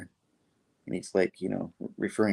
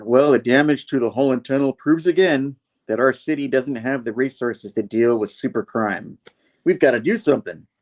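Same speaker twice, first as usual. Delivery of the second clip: a touch of urgent public address, raised and louder; news statement; 4 semitones higher, 6 dB louder than usual. Retold or imitated. Randy saying on the news the city lacks resources, mildly urgent. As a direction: voice a concerned speaker on the news, lightly.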